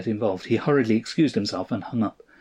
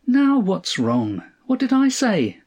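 high, baffled protest; bewildered demand; 10 semitones higher, 4 dB louder, slower than usual. A narrator's reading. Wife demands what's wrong, high and bewildered. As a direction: demand an answer, pitched way up. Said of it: "demanded Althea, bewildered".

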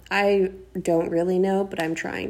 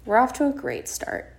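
higher-pitched, hopeful announcement; upbeat reconsideration; 5 semitones higher than usual. Real, not acted. Host revising the bad start for listeners, upbeat. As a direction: lift the voice on a second thought.

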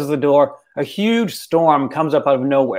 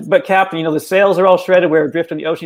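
mildly freaked out; 3 semitones higher, faster than usual. Retold or imitated. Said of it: "the crew's a little freaked out".

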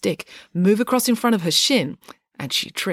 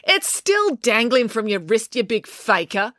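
snapping; 4 semitones higher than usual. Acted. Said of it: "snapped April".

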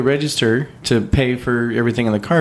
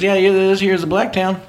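imitated old Southern lady, pitched up high; sweet Southern lady; 8 semitones higher than usual. Sweet Southern lady pointing out towns from the back seat, imitated high voice. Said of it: "sweet Southern lady".

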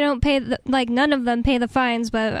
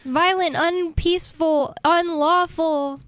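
sarcastic; 4 semitones higher, much slower than usual. Pretend. Mocking police claims of violence.

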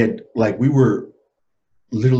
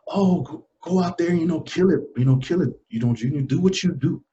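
lightly imitated higher-pitched pep talk; a hint of grandma cheering him on; encouraging grandmother; 6 semitones higher than usual. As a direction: send your grandson off to the game. Grandmother urging him on before game.

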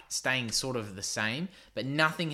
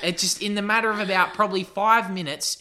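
laughing; 7 semitones higher, 6 dB louder, faster than usual. Real, not acted. Laughing through story.

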